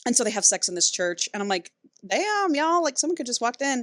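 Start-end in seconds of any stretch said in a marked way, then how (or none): 2.1-3.8 mock shock. Her own reaction to church sex.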